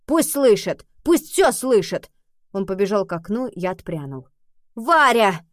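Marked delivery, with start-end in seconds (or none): 0.1-2.1 higher, louder, slow defiant shout; defiant yell. A narrator's reading. Boy shouting at grandmother to let them hear, defiant yell. 4.7-5.4 loud high cry of a name; exclaiming. A narrator's reading. Grandmother crying out to the maid, loud alarmed cry. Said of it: "воскликнула женщина".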